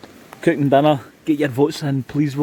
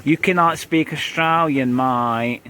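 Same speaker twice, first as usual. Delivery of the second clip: teasing mock-Australian accent; imitated Australian wife; slower than usual. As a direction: scold in a badly faked Aussie accent. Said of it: "My wife's Australian".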